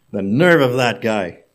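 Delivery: indignant secretary. Acted. Secretary fumes after being scolded.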